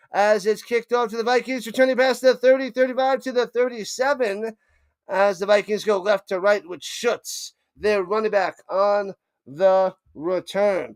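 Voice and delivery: quick live game call; play-by-play call. Acted. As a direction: call the kick return as it happens.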